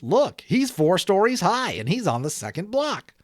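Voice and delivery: put-on a boy calling out in awe at his friend aloft; excited kid yell. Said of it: "yelled one of the boys".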